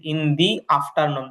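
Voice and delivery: slow "in dee afternoon"; "the" with a drawn-out ee. Shown as a demonstration. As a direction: say "the" as "dee" before the vowel of afternoon. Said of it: "দা এর পরে এ আইছে".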